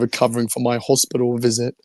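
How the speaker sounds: hoarse voice after illness; scratchy, worn-out throat; raspy voice. Real, not acted. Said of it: "uh, raspy voice".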